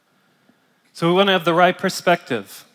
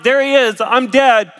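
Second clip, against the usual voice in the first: a hammed-up dying gasp, higher and louder; awestruck John; 6 semitones higher, 9 dB louder than usual. Pastor voicing John collapsing before Christ, mock awe. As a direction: play it like you just keeled over. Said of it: "He's like".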